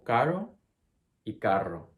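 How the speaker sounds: caro with a single tap, carro with a long trill; tap versus trill. Shown as a demonstration. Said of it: "contrast from the single R".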